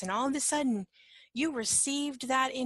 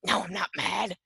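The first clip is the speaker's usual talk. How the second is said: louder, mildly irritated mock denial; angry denial; 5 dB louder than usual. You answer the worried companion, mildly angry denial. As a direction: deny it with a touch of acted irritation. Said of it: "it's hard to verbalize".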